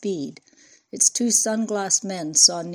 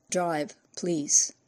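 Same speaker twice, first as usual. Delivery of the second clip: gasped. A narrator's reading.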